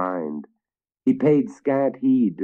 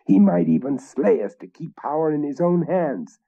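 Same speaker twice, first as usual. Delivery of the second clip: urgent conspirator; 4 semitones higher than usual. Acted. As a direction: press them hard to act. Third knight urging murder.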